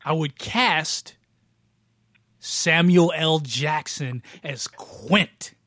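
slow, drawn-out big announcement; slow dramatic reveal. Shown as a demonstration. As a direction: unveil the name slowly, for effect. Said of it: "think about that for a minute".

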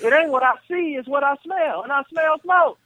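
high calling voice from another room; granddad calling. Retold or imitated. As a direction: call the name up high, a room away. Grandfather's stern retort.

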